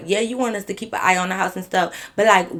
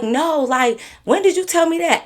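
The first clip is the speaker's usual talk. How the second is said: high, baffled friend; confused; 9 semitones higher, 3 dB louder than usual. Retold or imitated. Friend baffled, asking when she was ever told. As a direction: ask it as if it never happened.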